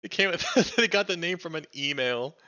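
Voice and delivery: high-pitched, drawn-out incredulous reaction; amused disbelief. Real, not acted. Streamer reacting to where the name came from, amused disbelief. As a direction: react in delighted disbelief, voice jumping up.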